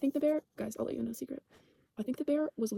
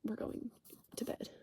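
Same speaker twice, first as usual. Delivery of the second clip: soft soothing quote; 9 dB quieter than usual. Retold or imitated. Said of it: "It was like".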